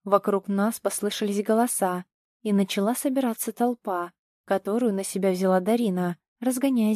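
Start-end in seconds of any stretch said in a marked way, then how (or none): none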